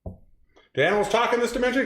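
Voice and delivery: a hint of a nervous cartoon pig; movie pig line. Reading a quiz quote to her partner, light pig voice. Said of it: "Next line".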